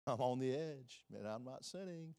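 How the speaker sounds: whiny self-excusing sinner voice; mock defensive sinner. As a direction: play a sinner excusing himself. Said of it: "You, you".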